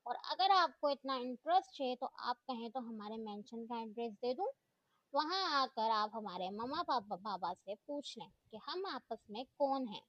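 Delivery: a mild, cutting edge throughout; lightly sarcastic sting at the teacher; student mocking the teacher's curiosity, mildly sharp. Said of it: "तीखे लहजे में बोली".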